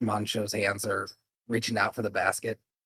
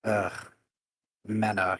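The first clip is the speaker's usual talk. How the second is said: put-on raised pitch, French-accented host; Mancho Cheris; 3 semitones higher, 6 dB louder than usual. Innkeeper welcoming late guests back, French accent. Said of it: "kinda like a French accent".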